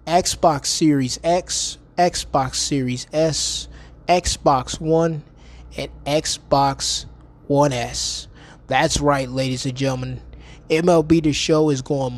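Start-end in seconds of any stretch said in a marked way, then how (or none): 0.1-8.3 slow drawn-out list. Acted. Drawn-out listing of consoles.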